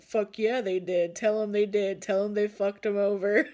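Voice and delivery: loud, emphatic egging-on; ancestors cheering agreement. Retold or imitated. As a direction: shout it like a rowdy backer, near laughter. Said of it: "your ancestors are like".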